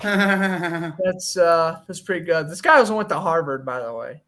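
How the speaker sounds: mock Boston accent with dropped r's; a clumsy put-on Boston accent; bad Boston accent. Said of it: "I think that's the worst Boston accent".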